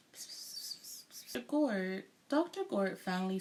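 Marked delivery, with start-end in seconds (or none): 0.1-2.0 hushed whisper, slow. A narrator's reading. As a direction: whisper it to a colleague. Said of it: "huddled together and whispered".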